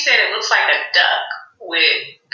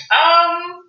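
higher-pitched retold incredulity; mock-puzzled question, starting high on the um; incredulous question; 6 semitones higher than usual. Sister questioning Tamar's outfit as she walks in, mock incredulous. Retelling Toni's baffled question.

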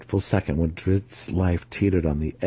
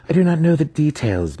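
agitated; 9 semitones higher, 4 dB louder than usual. A narrator's reading. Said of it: "Matron Santa Fe replied".

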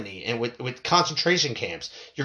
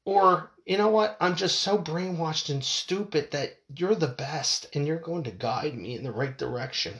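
mock helpless pleading; 3 semitones higher than usual. Mocking dependent citizen.

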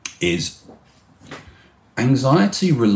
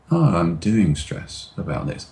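slower. Shown as a demonstration. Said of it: "change the speed of your voice".

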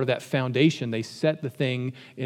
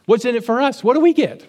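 much higher and louder, a hammed-up whine; whiny demanding Peter; 9 semitones higher, 7 dB louder, faster than usual. Peter presses Jesus for their reward, hammed-up whine. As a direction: play him like a greedy kid pleading for a prize.

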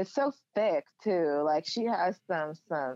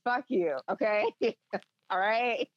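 playfully outraged, pitch up; mock mad; 4 semitones higher than usual. Real, not acted. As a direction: fake fury while laughing. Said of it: "you big mad".

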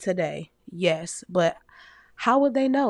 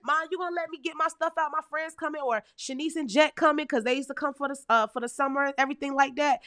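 put-on pleading kid to mom; 6 semitones higher, faster than usual. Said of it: "So I'm thinking".

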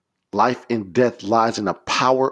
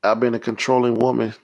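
earnest prayer in short, separate pleas; confessional prayer. Shown as a demonstration. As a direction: plead with God, pausing between petitions.

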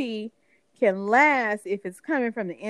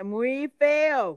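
Spanish phrase; 4 semitones higher than usual. Shown as a demonstration. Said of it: "Sometimes you gotta say it in Spanish".

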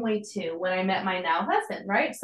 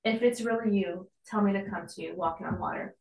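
softer and fast, a throwaway try; tentative testing; 3 dB quieter than usual. Pretend. Peter testing Jesus casually, softer and quick. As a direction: toss it off like a half-hearted test. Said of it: "okay, let me just throw, like, let's see if this works".

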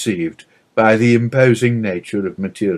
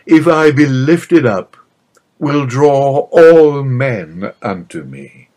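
raised, slow and ringing, a prophet's declaration; louder and higher, each word weighted and drawn out; solemn proclamation; 3 semitones higher, 4 dB louder, slower than usual. Acted. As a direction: lift the voice and slow right down, as if announcing destiny. Jesus proclaims his coming death.

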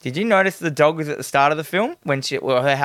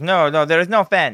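mock Russian accent; 4 semitones higher than usual. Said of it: "I can't do a Russian accent".

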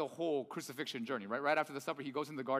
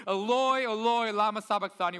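raised, loud anguished cry to God; 4 semitones higher, 6 dB louder than usual. Acted. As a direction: call it out high and loud, as if forsaken. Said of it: "cried out with a loud voice".

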